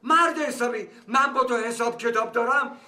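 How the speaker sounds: a father demanding his son open up. Acted. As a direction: call out sharply at the closed door. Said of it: "داد نزن".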